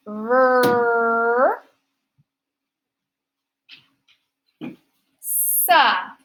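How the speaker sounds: "Ver-" e "sa" staccati, sillaba per sillaba; syllable by syllable. Shown as a demonstration. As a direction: scandisci "Ver-"… "sa" lentamente. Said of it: "This one's a little trickier".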